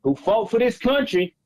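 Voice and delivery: fake Southern accent. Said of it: "the terrible Southern accent".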